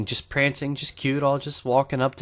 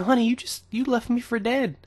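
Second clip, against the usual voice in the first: hurt whine; 10 semitones higher, 5 dB quieter than usual. Retold or imitated. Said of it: "I felt hurt".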